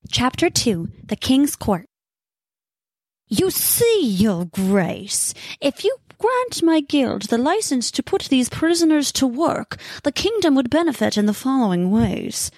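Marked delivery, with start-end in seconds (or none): 3.3-12.5 higher, pompous petitioner voice; droning guild member. A narrator's reading. Guild member pitching to the king, droning on. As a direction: drone on self-importantly. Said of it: "The voice droned on and on".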